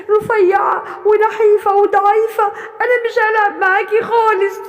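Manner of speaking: hurt goat refusing, building to a shout; sulky refusal rising into an outburst; upset thin goat. Acted.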